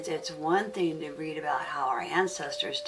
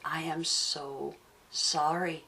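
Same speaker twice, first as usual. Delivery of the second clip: gentle apology. Retold or imitated. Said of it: "it may have sounded something just like".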